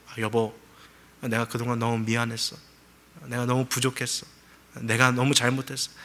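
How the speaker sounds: a husband tenderly apologising to his wife; tender apology. Retold or imitated. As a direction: say sorry gently to your wife.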